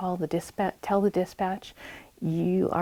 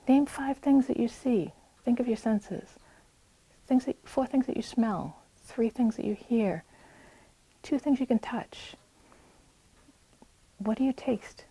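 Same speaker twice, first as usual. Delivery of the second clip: higher, soothing guidance to an agitated youth; calm grounding voice; 5 semitones higher than usual. Retold or imitated. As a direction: talk them down gently. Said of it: "just say".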